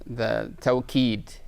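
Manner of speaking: slowly spelling out "tawqeed", each syllable drawn out; slow careful term. Shown as a demonstration. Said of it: "the, the".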